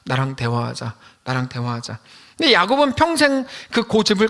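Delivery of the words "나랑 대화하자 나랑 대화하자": low, gently lowered voice of God; an understated, low invitation, said twice; God's voice. Acted. God asking Jacob to talk, in a low, subdued voice. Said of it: "하나님이 뭐라 그러셨습니까".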